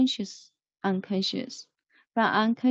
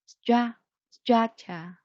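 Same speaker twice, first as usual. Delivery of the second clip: structure with STRUC stressed; STRUC-ture; stress on first syllable; 2 semitones higher, slower than usual. Shown as a demonstration. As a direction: lean on the first beat of structure. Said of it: "the stress should be put, should be put on the first one".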